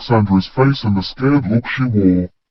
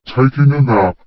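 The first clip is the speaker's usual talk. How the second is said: a lightly yawned reply; yawning; 2 semitones higher than usual. Acted. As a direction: say it through a yawn. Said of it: "I yawned".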